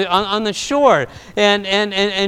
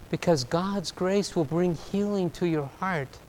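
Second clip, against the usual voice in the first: tender God voice; 5 dB quieter than usual. Acted. God speaks grace to Jonah.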